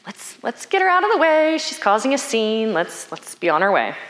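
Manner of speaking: high-pitched hushing-her-away urgency, easing down; embarrassed disciples. Acted. Disciples wanting the shouting woman gone, embarrassed. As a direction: start high, then settle, as if shooing someone off. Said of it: "They're kinda like".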